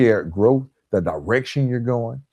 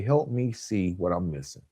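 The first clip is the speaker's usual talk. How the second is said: gentle request; 3 semitones lower, 7 dB quieter than usual. Shown as a demonstration. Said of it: "I've started learning to say".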